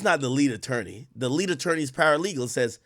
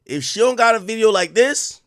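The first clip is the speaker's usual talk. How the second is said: louder, pitched-up rant; exasperated raised voice; 5 semitones higher, 6 dB louder than usual. Real, not acted. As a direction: push it up as an indignant rant. Streamer ranting about a missing video.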